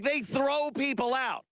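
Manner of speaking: ordinary talk, nothing marked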